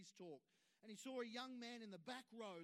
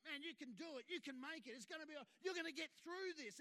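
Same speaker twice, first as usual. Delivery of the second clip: encouraging; 7 semitones higher, 4 dB louder, faster than usual. Pretend. Energy of encouragement voiced.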